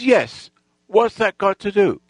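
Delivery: imitating an annoyed gang leader; acted testy challenge; irritated retort. Gang leader snapping back in quarrel.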